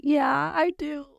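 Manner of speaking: high, slow, small-voiced admission; imitating comforted person. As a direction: play someone opening up in a high voice. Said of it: "And they'll say".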